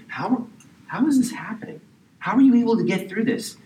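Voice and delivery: high-pitched, incredulous questioning; amazed onlookers. Acted. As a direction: voice onlookers who can't believe it. Onlookers' amazed question, voiced by preacher.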